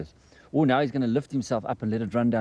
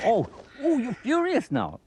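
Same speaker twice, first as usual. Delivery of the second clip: much higher, slow sing-song coo to the animal; teasing coo; 12 semitones higher, slower than usual. Real, not acted. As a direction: coo up high, gently teasing its temper. Cooing at an angry little animal.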